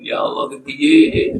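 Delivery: hammed-up flustered cry to God; mock panicked plea. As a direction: squeal it out in mock alarm. Imagined panicked reply to congregant.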